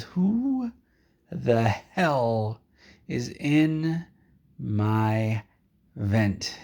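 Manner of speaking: a hammed-up angry boss yelling up at the vent; mock angry demand.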